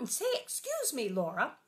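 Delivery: a hint of a prompting mother; stern mother prompt. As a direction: remind her of her manners like Ma. Ma reminding Laura.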